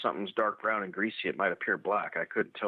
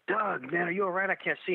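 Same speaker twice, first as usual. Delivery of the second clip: raised, high-pitched call to a buddy; retold calling out; 8 semitones higher than usual. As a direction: call through the woods, only mildly projected. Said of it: "he's always yelling back".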